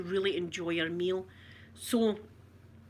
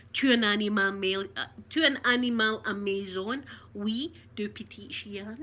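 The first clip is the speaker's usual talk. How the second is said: party French. Shown as a demonstration. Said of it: "Say something".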